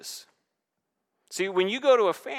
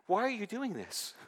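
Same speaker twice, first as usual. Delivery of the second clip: exasperated parent; 5 semitones higher, 7 dB quieter than usual. Retold or imitated. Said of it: "tried to reason with a baby".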